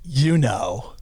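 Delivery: knowing parrot, drawn out after a pause; parrot punchline. Acted. Parrot outwitting the owner's warning, knowing delivery. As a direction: land the punchline as a sly parrot. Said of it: "Parrot goes".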